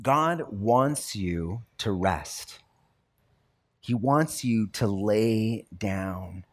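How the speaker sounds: very slow, each word weighted; slow emphatic urging. Real, not acted. Pastor urging the congregation to rest, very slow and deliberate. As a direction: let every word land, slowly.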